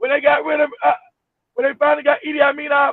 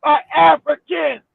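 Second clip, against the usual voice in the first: mock dictator decree. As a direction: lay down the order like a dictator. Voicing Idi Amin's decree.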